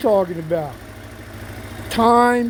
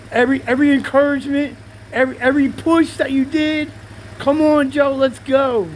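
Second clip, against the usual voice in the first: excited; 5 semitones higher than usual. Real, not acted. Hyping up friend Big T.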